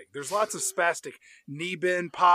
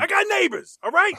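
mock annoyed; 12 semitones higher, 6 dB louder than usual. Imitating Affleck annoyed.

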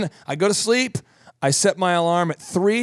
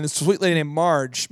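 ordinary talk, nothing marked

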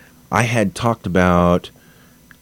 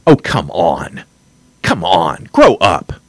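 fed-up scoff, louder at the end; exasperated; 3 dB louder, slower than usual. Real, not acted. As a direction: dismiss them with exasperation. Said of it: "I'm getting a little wound up".

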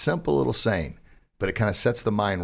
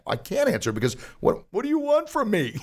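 exasperated cry; 12 semitones higher than usual. Retold or imitated. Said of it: "I'm like".

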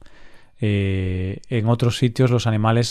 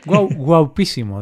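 high, slow flattering dog voice; lightly mocking dog compliment; 4 semitones higher, slower than usual. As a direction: coo like a doting dog. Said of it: "Cada vez que me ve dice".

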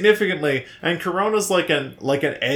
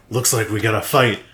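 hammed-up Cockney threat before a fight; mock Cockney accent; 6 semitones lower than usual. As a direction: lower Cockney tough-guy line. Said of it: "I can't not do the accent".

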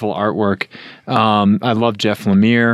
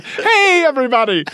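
put-on much higher, Scottish-accented hey everybody; Scottish streamer greeting; 13 semitones higher than usual. Host imitates a Scottish streamer's opener on the podcast. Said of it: "he starts off his podcast by saying".

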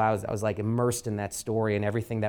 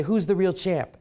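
rallying call; 7 semitones higher, 4 dB louder than usual. Retold or imitated. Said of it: "And he would say".

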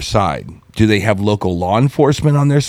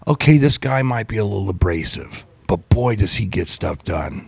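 mock public voice; 3 semitones lower, 5 dB quieter than usual. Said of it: "are behind".

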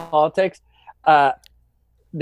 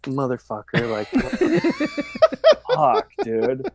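laughing disbelief; 7 semitones higher than usual. Retold or imitated. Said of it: "the guys are just sitting there like".

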